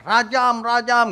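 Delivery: high, loud cry of rajam; crowd yelling. Retold or imitated. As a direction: shout it like an angry crowd. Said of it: "semua orang teriak".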